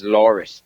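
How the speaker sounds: "Laurit" for Laura, A turned to T; "Laurit", ending in a hard T; dropped-A Laurit. Shown as a demonstration. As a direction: say "Laurit" with a T on the end. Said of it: "Laura becomes Laurit".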